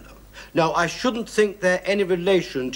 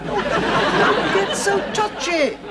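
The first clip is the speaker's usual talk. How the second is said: mocking; 12 semitones higher, much slower than usual. Mocking the angry neighbour.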